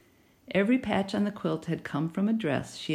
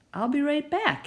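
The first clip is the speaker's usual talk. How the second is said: said loudly; 10 semitones higher than usual. A narrator's reading. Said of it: "he said loudly".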